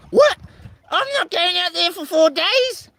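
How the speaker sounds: high, squeaky imitation of his wife; high mock wife voice refusing four days. Voicing wife in retold argument.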